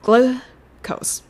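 グル clipped very short, then コース; short glu. Shown as a demonstration. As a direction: rush through グル and land on コース. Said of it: "めっちゃ短く発音してください".

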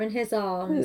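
slow, measured preacher's delivery; mock sermon reading. Imitating audiobook narrator to co-host, slow sermon-like reading. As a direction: read the love scene like a solemn sermon. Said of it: "read it like a fucking sermon".

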